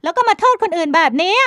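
high, loud retort; argumentative young woman. A narrator's reading. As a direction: argue back defiantly. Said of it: "พลอยไหมเถียง".

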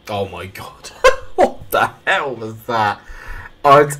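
bursting out laughing in disbelief; loud, slow, laughing disbelief; astonished laughter. Real, not acted. Gamer reacting to an unbelievable goal, laughing in disbelief.

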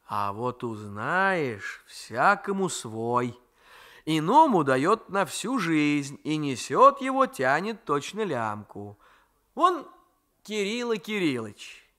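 lightly voiced old grandmother, slow and chiding; a hint of a fond, grumbling old woman; grandmother's voice. Grandmother moralising.

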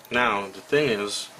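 talking while chewing gum; words round a piece of gum. Real, not acted. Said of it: "I do have a piece of gum in my mouth".

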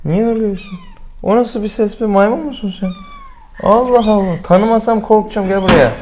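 high-pitched cooing to a cat; pet talk. Real, not acted. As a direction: coo at a fussy pet, voice well up. Vet cooing at hissing cat. (kediyle tiz sesle konuşma)

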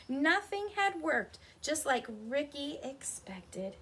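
animated picture-book narration; story reading. A narrator's reading. Telling children of the determined rocks, lively storytelling. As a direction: read it out clearly to young children.

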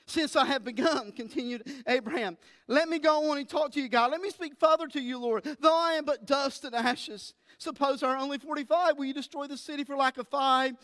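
pleading Abraham. Acted. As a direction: press God humbly but urgently. Abraham bargaining with God.

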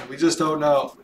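ordinary talk

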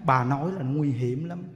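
low, slow, softly ominous; grave warning. Retold or imitated. Monk warns woman about talking, retold grave warning. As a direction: imitate a monk's hushed, measured warning.

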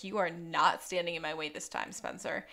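low, soft threat; menacing. Retold or imitated. Bird confronting Sean outside the police station, menacing. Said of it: "very menacing".

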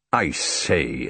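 a touch of irritation; irritated. A narrator's reading. Hastings interrupts the foreign conversation, irritated. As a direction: break in, put out. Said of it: "with a certain irritation in his voice".

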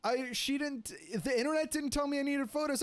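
high-pitched panicked retold rant; freaking out. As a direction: rattle it off, half-panicked and pleading. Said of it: "I'm freaking out".

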